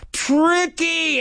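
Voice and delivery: high, stretched cry of a name; storyteller's high-pitched yell; acted scream. A narrator's reading. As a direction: cry out in alarm. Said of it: "Jack screamed".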